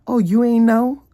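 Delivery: high mock of the friend; friend's casual reply. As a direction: mimic the friend shrugging. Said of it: "he literally told me on the phone".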